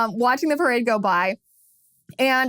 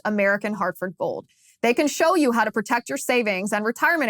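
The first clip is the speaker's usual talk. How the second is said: upbeat sponsor read, lightly sold. Acted. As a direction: sell the gold company to listeners. Host reads sponsor ad.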